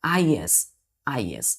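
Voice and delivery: "आईएस" as the spoken plural ending, short i plus s/z; es pronounced "iz". Shown as a demonstration. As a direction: demonstrate the ending "आईएस", said twice with falling tune. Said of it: "ईएस का उच्चारण क्या होता है".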